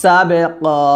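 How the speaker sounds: slow, drawn-out tajweed chant; Quran recitation. Shown as a demonstration. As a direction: recite with measured melody. Quran recitation lesson, teacher recites. (ধীর সুরে কুরআন তিলাওয়াত)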